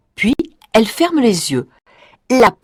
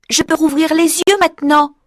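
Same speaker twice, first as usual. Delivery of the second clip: fillette soulagée; 6 semitones higher than usual. Acted. Pensée de Marie.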